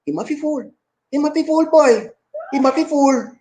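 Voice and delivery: high-pitched Gullah Geechee, words run together. Shown as a demonstration. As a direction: rattle it off high in thick Gullah. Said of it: "In, in Gullah, in Geechee language".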